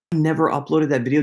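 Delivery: gasp, then rush the words out; a quick gasp of dismay; sudden realization. Real, not acted. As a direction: caught off guard by his own mistake. Realizes he forgot the upload.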